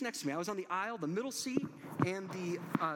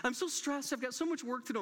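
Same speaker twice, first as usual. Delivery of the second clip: much higher, fluttery apologetic woman; a hint of a frantic seatmate; flustered wife; 8 semitones higher than usual. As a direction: imitate her frazzled apology. Flustered wife voiced by him.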